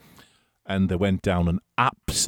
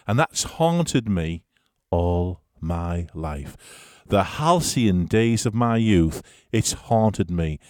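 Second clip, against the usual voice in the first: mock-tragic lament; 2 semitones lower, slower than usual. Mock-tragic ending to a funny story.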